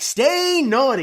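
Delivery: sign-off pitched too high for the co-host; too high take. Shown as a demonstration. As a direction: pitch "Stay naughty" way up and stretch it. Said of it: "No, that's too high".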